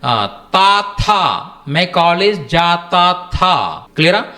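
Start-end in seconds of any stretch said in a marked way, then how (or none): 0.5-1.4 తా light, then థా with a puff of air; తా unaspirated, థా aspirated; ta versus tha. Shown as a demonstration. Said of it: "థా అని పలుకుతాం". 1.7-3.8 slow model sentence. Shown as a demonstration. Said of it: "slow model sentence for learners".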